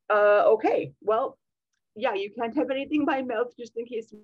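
hesitant nurse. Retold or imitated. Nurse hesitating to a groggy patient, lightly voiced. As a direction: stammer like an unsure nurse.

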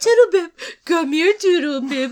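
high, loud sing-song call; calling a child. Pretend. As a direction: call the pet name out across the house. Calling a child pet name.

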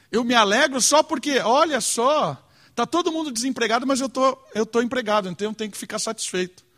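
a touch of smug self-satisfaction, lightly voiced; mock smug believer. Preacher mocks a selfish believer's thoughts, lightly smug. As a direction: lightly play a selfish believer pleased with himself. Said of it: "Olha que mentalidade egoísta".

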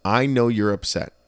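calm him down gently; gentle reassurance. Retold or imitated. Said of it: "I was like".

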